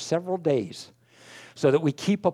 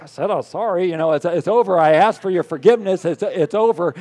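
breezy wife; 4 dB louder than usual. Retold or imitated. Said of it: "like that".

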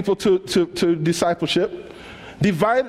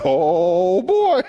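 sassy scoff. Pretend. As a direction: scoff at him. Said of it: "She like".

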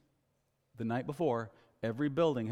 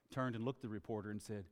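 ordinary delivery

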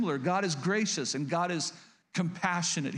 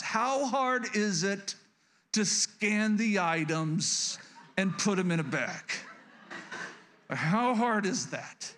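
slow, drawn-out exasperated complaint; getting mad; 3 semitones higher, slower than usual. Retold or imitated. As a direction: stretch the words out in disbelief. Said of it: "as I'm getting mad".

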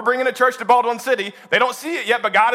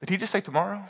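laughing disbelief; 9 dB quieter, faster than usual. Retold or imitated. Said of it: "Moses must have looked at Aaron and said".

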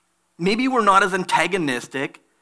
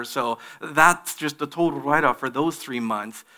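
busy excuse. Retold or imitated.

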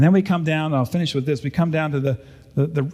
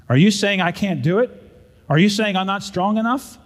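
indignant retort, a bit raised; 4 semitones higher than usual. Acted. Rock stacker snaps back at firstborn, indignant and raised. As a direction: defend the rocks, stung and proud. Brother defends his rock work.

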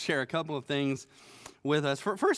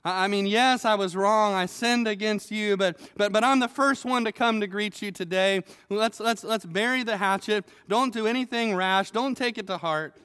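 higher, louder hammed-up smooth-talking; wheedling plea; 4 semitones higher, 3 dB louder than usual. Shimei sweet-talks King David to escape punishment, wheedling. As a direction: sell it like a slippery salesman. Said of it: "he's saying".

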